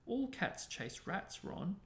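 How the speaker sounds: high, slow, mildly upset plea; voice shaking. A narrator's reading. Hermione defends her cat to Ron, voice shaking a little. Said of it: "her voice shaking".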